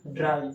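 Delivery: ड्राई said low and soft as German "drei"; quiet German ड्राई; German pronunciation. Shown as a demonstration. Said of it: "क्या बोलते हैं?".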